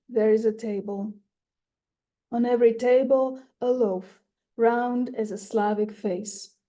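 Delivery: measured poem recital with long pauses; poetry reading. Acted. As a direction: read your poem aloud, lifting each opening phrase, letting lines fall away. Reads own poem aloud.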